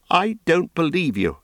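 a hint of fear cracking the denial; voice shaking. A narrator's reading. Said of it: "and her voice shook".

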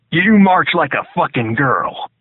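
loud, slow, contemptuous bark; drill sergeant yelling. A narrator's reading. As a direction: bark it at the recruit. Drill sergeant berates recruit.

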